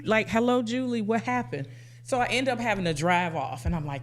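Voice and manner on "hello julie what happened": computer voice. Retold or imitated. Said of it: "my best computer voice".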